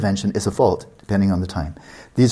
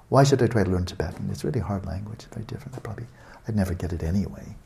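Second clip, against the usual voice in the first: softer, sinking self-talk of a reluctant student; mopey self-doubt; 6 dB quieter, faster than usual. Retold or imitated. A lazy student talking himself out of practice, softly mopey. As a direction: talk yourself out of trying, trailing softer.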